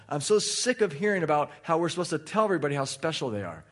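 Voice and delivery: fast exasperated rant; real venting, words rushing out fast; venting frustration. Real, not acted. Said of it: "I can't believe I'm venting".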